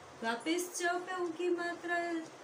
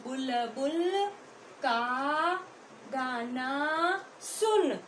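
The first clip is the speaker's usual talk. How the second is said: slow syllable drill; slower than usual. Shown as a demonstration. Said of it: "क्या बोलोगे सीधे सीधे?".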